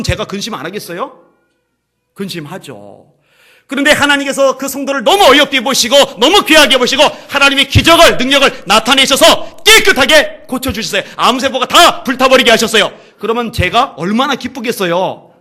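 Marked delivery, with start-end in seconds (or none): 3.7-15.3 loud, high joyful proclamation with a laugh; joyful preaching. Acted. Preacher rejoicing before the congregation, loudly. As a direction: let the joy burst out.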